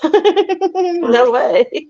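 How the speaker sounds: laughing high "no way". Real, not acted. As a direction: break into laughter on the words. Laughing at a viewer's joke.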